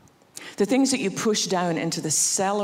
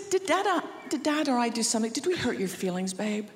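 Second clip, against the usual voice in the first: softer, gentle mom questions; tender worry; 4 semitones higher, 4 dB quieter than usual. Retold or imitated. Mother gently asking her son if they hurt him, soft and tender. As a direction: ask as a caring mother, softening.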